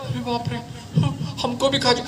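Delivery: put-on wide-eyed boy terrified of the ghost; frightened child. Little boy frightened by grandfather's ghost story, high-pitched.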